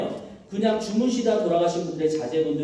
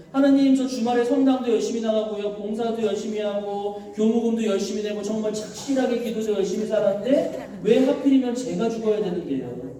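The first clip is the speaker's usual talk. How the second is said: indignant complaint to God; 3 semitones higher than usual. Acted. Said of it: "화가 나기 시작해요".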